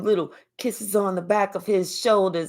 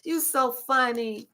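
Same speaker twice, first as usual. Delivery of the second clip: giggly flirting; 6 semitones higher, slower than usual. Retold or imitated. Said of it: "we all go".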